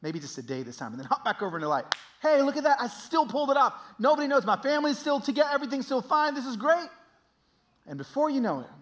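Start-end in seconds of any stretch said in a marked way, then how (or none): 2.2-6.9 high, loud, hammed-up self-congratulation; cocky elation. Sinner boasting to himself that all is fine, loudly elated. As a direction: crow about getting away with it. Acting out boastful denial of sin.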